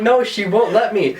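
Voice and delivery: high, drawn-out mock protest; retold freak-out. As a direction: imitate a drunk, panicked insistence. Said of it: "I was just freaking out".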